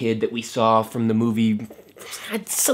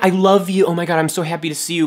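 mock tearful joy; 7 semitones higher, 6 dB louder than usual.

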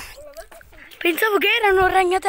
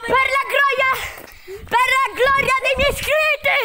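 mock battle cry; 5 semitones higher than usual. Real, not acted. Heroic battle cry for subscribers.

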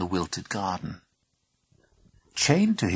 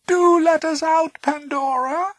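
creepy little voice; 8 dB louder than usual. Acted. Voice from the chest.

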